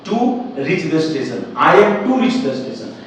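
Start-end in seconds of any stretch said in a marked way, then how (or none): 1.7-2.9 slow, spelled-out teacher reading; careful dictation pace; slow model sentence. Shown as a demonstration. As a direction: read it out slowly for the class. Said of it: "तो अंग्रेजी होता है I am".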